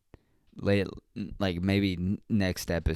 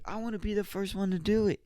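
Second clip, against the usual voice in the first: high falsetto pleading; mock childish protest; 13 semitones higher, faster than usual. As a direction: imitate a little kid's complaint. Retells child's protest to parents.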